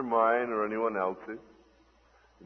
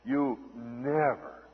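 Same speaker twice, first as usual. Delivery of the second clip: slow, drawn-out accusation; Satan's accusing refrain; slower than usual. Acted. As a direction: draw out each accusing word slowly. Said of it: "always go something like this".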